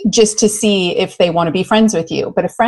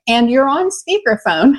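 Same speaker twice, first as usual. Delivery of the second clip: higher-pitched retold interjection; mildly alarmed retold warning; urgent warning; 5 semitones higher than usual. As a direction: cut in to warn a friend, retold. Acts warning friend mid-rant.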